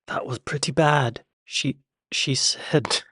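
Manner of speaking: put-on amateur British accent; halting, badly faked British accent; attempted British accent. Reactor judging an actress's accent, in a shaky attempt at British. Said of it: "try to speak with some sort of British accent".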